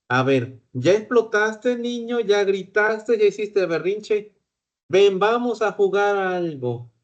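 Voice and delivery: lightly voiced teacher coaxing a child out of a tantrum; gently inviting a child to play; teacher calming a child.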